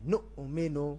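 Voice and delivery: nu'minu with a long u, recited slowly; correct Arabic recitation. Shown as a demonstration. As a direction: say নু'মিনু with the glottal stop kept. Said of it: "নুমেনু বললে ভুল হবে।".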